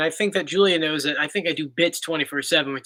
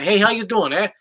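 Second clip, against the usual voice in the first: put-on South Philly Italian accent; mock Philadelphia tough-guy accent. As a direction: play a Philly wise guy squaring up. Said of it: "it's always like a tough guy".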